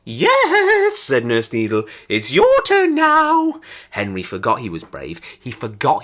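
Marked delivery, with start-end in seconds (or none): 0.0-1.0 gloating insistence. A narrator's reading. Nurse overrules the shrieking boy. 2.1-3.6 slow, high-pitched nurse's call; high sing-out to the next victim; menacing summons. A narrator's reading. Nurse summons the frightened boy.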